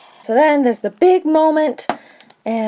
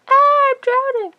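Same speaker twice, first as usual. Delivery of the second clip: mock panic; 14 semitones higher than usual. Luke crashing into the swamp.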